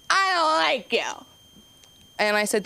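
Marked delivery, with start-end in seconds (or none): 0.1-1.3 high-pitched imitation of a defiant kid; mock child's outburst, pitched way up; emphatic repeat. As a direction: blurt it out high so it can't be missed. Kid repeats it after being asked.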